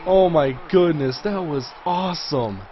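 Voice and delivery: excited amazement. Real, not acted. Gamer marvels at a spectacular catch, excited amazement. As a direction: marvel at what you just saw. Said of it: "I get really excited".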